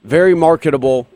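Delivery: dry mock praise; sarcastic. Real, not acted. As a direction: oversell it with a wink. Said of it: "and I'm being sarcastic".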